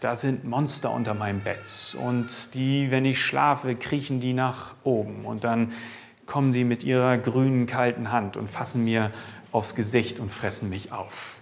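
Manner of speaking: hushed bedtime fear, lightly voiced; scared child. Child in bed imagining monsters, softly fearful.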